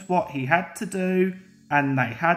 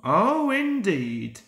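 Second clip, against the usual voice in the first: slow, stern and measured; drawn out like a stern boss; severe. Acted. Sir Topham Hatt scolding sulky engines, slow and severe. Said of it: "said Sir Topham Hatt severely".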